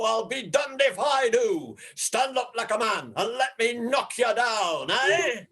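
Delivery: jealous threat. Acted. Jealous John challenges the London rival, shouting. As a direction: square up and bellow.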